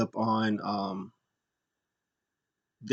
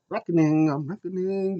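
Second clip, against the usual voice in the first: high, put-on wrestler voice; mock wrestler insistence; 7 semitones higher than usual. Mocking a masked wrestler's ring name, put-on insistence. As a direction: mimic her insisting on the gimmick.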